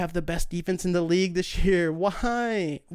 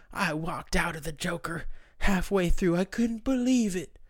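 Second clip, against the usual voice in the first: mocking complainer. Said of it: "you hear stories of, like".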